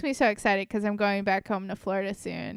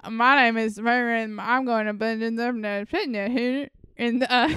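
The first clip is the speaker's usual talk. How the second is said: a hint of a Southern college girl; Southern accent. Friend imitates TikTok girls in a light Southern accent. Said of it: "really Southern accents".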